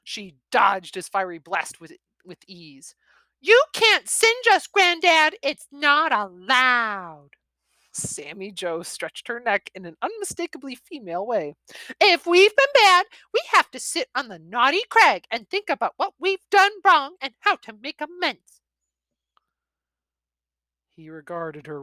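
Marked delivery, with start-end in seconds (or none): 3.4-7.3 high, loud taunt slowing at the end; a know-it-all child scolding granddad; high smug young dragon girl; smug little girl. Acted. 12.0-18.6 high, preachy recital of the rules; a child parroting grown-up discipline; high prim young dragon girl; prim little girl. Acted.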